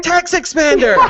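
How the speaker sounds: high, emphatic outburst with laughter; laughing, comic indignation; exasperated exclamation. Real, not acted. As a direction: burst out with the culprit's name. Confirming the guessed culprit, exasperated.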